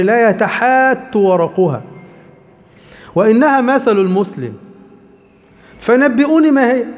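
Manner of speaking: slow, measured classical Arabic reading; slow solemn narration of the hadith; hadith recitation. Acted.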